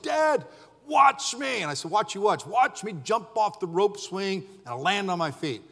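put-on high eager child's call; excited kid. Young son calling to dad, a high excited shout. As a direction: beg dad to watch, bouncing.

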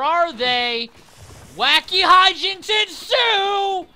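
slow, high, loud trailer voice; announcer voice. Pretend. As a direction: boom it like a movie trailer. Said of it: "Ensue, he says".

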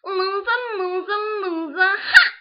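high, loud gloating Harley taunt; slow, mocking loser chant; overacted death scene. Shown as a demonstration. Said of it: "the death scene ... when she kills you".

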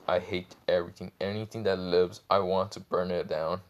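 understated annoyed voice. Acted. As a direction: grumble it with mild, sullen annoyance. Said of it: "just annoyed voice".

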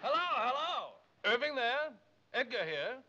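high, projected telephone hello; calling down the phone. Acted. Agent on a call from London to New York, calling out. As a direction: raise the pitch to carry over a long-distance line.

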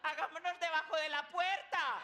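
high, loud lady in alarm; mock-frightened wife calling out; panicking wife. Wife reacting to a fire, in a high, loud, alarmed voice. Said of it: "Y la señora".

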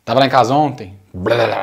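"tava lá em casa" run together, syllables dropped, into blah-blah; syllables run over. Shown as a demonstration. Teacher showing everyday Portuguese, "tava lá em casa" run together. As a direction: trample the words of "tava lá em casa" into each other. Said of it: "atropela tudo".

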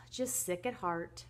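slow, weary sigh into the words; sigh, then say it with drawn-out gloom; hammed-up heartache; heartsick sigh. Gloomy husband sighs over troubles.

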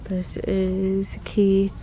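ordinary talk, nothing marked

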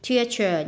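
"Teacher" stressed on the first syllable. Shown as a demonstration. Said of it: "nhấn âm một".

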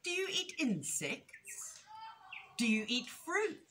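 high, curious little rabbit voice; innocent young rabbit. A narrator's reading. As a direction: keep asking with naive interest.

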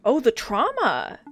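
slow, drawn-out mock lament; mock-dramatic. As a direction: wail it slowly in mock horror. Mock-dramatic outcry at game scene.

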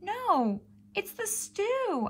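high, slow plaintive meow; meowing cat. A narrator's reading. Cat explaining to Mother it's the stew, high slow meow. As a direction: drag it out like a cat's meow. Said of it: "I meowed".

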